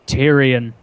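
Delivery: chapter title read out on its own; audiobook chapter announcement. Retold or imitated. Imitating the narrator opening a new chapter, announcing. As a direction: announce the name as a heading, then stop. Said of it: "it'll go".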